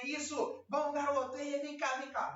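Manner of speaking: high, playful call to the puppy; playful praise. Shown as a demonstration. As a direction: call the puppy over happily. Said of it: "faz uma baguncinha".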